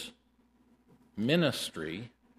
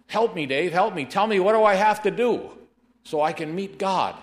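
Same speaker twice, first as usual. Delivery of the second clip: higher, louder desperate cry for help; pretend dying plea; 7 semitones higher, 6 dB louder than usual. Preacher acts a dying man pleading with Dave for help. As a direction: beg like a man gasping on the floor. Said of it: "I'm just gasping, and I say".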